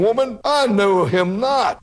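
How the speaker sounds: a hint of a defensive Peter; Peter's denial. Peter denying Jesus, acted.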